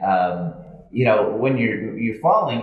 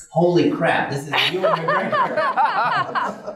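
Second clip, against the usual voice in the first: higher, laughing disbelief as it dawns on him; starstruck realization; slower than usual. Retold or imitated. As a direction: retell the moment you realise who it is. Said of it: "I was like".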